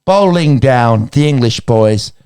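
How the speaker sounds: put-on mild motherly English accent, talking to Otis; a hint of Gillian Anderson soothing her son; Gillian Anderson impression. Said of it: "I will do the accent because why not".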